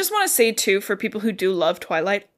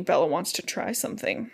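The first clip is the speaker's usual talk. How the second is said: lowered, softer suggestive tease; ominous teaser; 7 dB quieter than usual. Real, not acted. Host teasing co-host with what Bella tries, ominous. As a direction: drop it softly to hint at trouble. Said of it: "I don't like how you said that".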